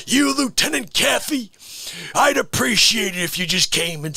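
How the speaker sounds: high, loud, slow shouted rant; hammed-up colonel rant. Colonel shouting down the lawyers, hammed up. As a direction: roar each word at the courtroom. Courtroom movie scene quoted.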